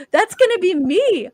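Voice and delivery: high-pitched, rising mock alarm; mock panicked realization. Picturing oneself among street crazies, mock panic. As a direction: voice jumps up in acted dread. Acted dread of ending up crazy.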